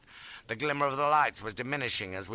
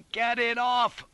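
high, loud pained plea; strained cry of agony; agonised groan; 12 semitones higher, 5 dB louder, slower than usual. A narrator's reading. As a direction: groan it out under crushing weight. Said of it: "I groaned".

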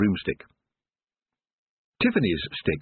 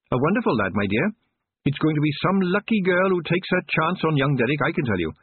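put-on much higher, chatty old witch; 7 semitones higher than usual. Missus Proust chatting to Tiffany about Derek. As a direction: gossip proudly about her son. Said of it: "in a suddenly chatty tone".

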